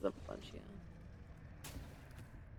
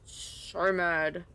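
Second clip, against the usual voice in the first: mad; 5 dB louder, much slower than usual. Real, not acted. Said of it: "I'm mad".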